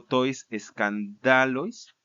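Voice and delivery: "escandalois" said slowly as skan-DA-lois; measured recitation, "escandalois" stressed on DA; stress shifted to penult. Shown as a demonstration. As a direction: land on DA in "escandalois". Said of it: "en el genitivo y dativo".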